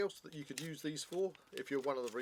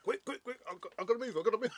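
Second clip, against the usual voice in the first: excited; 10 semitones higher, 6 dB louder, much faster than usual. Pretend. Mock rush after feeling energized.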